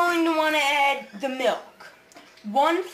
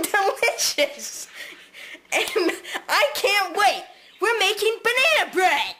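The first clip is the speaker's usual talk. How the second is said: excited host; 5 semitones higher than usual. Pretend. Host hypes the final dish.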